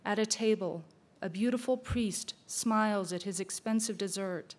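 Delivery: measured poetry reading; poem recitation. Acted. Reading a forgotten poet's poem for the record, measured recitation. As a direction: recite it phrase by phrase with pauses.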